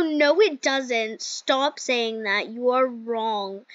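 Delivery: slow, spaced-out retold argument; retold rebuttal. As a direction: drag out each word of the retort. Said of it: "And then I go".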